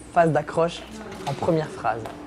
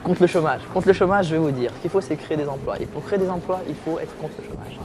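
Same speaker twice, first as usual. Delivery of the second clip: mock politician; 2 semitones higher than usual. A lightly hammed-up politician answering an interviewer about unemployment. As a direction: play a slick politician answering a reporter's question. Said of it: "Comme les politiciens".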